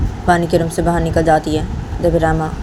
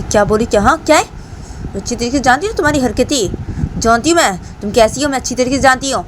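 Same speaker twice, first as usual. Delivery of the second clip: high-pitched suspicious wife; 7 semitones higher than usual. Retold or imitated. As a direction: call him out, voice pitched up. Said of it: "तो राम बोलती".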